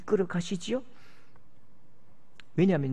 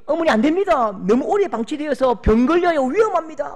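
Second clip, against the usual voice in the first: higher, louder, pleading with the mother to stop; anxious raised plea to a mother; urgent warning; 7 semitones higher, 6 dB louder than usual. Retold or imitated. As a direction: hold her back, urgently. Staff urging grieving mother away.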